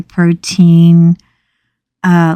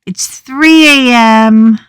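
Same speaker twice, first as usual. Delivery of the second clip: panicked protest; 4 semitones higher, 4 dB louder than usual. Retold or imitated. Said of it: "And I'm like".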